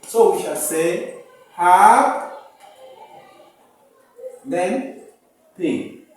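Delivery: "hap", pause, then "P", split apart; teacher segmenting the word happy; split syllables. Shown as a demonstration. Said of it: "these two P's will have to be separated".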